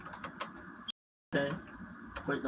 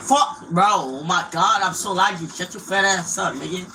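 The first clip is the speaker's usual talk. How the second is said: loud, higher burst of gamer rage; frustrated yell; 5 semitones higher, 7 dB louder than usual. Real, not acted. Gamer cursing at his lag, frustrated shout. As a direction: yell it at the lagging game.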